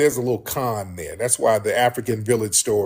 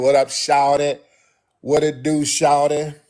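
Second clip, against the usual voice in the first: put-on Atlanta accent; 3 semitones higher than usual. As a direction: greet them in an Atlanta accent. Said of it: "We know an Atlanta accent".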